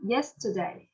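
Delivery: "Yesterday" with YES prominent; stress on first syllable. Shown as a demonstration. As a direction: read out "Yesterday", stressing YES and falling after. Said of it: "Number one".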